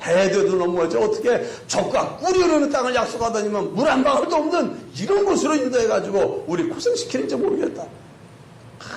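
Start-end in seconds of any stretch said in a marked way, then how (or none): 0.0-7.8 acted-out exasperated grumbling; mock grumbling, rising in pitch. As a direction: complain at length as a disgruntled parent. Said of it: "투덜, 투덜".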